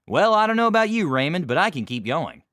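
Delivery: high, fast, loud mock bravado; hammed-up rival bragging; smug noble boast. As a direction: puff up like a show-off knight.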